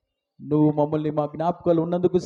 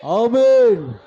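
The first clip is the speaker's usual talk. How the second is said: high, ringing, drawn-out Amen; big congregational shout; loud communal Amen; 5 semitones higher, 8 dB louder, much slower than usual. Real, not acted. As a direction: call out Amen for all to join. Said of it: "కలిసి చెప్దాం, ఆమేన్".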